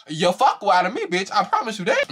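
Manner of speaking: high-pitched words through real laughter; cracking up. Real, not acted. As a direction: swear it while laughing hard. Cracking up at own reaction.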